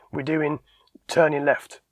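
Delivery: halting, with a gap before TURNING LEFT; freezing up. Retold or imitated. Instructor answers the examiner, freezing before TURNING LEFT. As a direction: stall after DOING, then state TURNING LEFT. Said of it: "they just kind of freeze".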